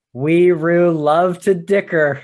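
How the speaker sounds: slow, savoring quote of a favorite line; imitating the narrator's line. Friend quoting a favorite audiobook line, slow and savoring. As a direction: lightly mimic the audiobook reading. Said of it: "with the way he says it".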